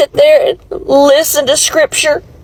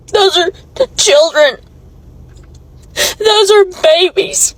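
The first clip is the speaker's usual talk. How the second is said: crying; 3 semitones higher than usual. Real, not acted. Crying vlog about raids on school.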